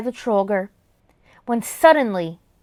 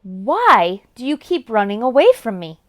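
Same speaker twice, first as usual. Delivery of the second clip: repeated troll question; 3 semitones lower than usual. Acted. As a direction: say it again lower. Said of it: "The Trollger repeated".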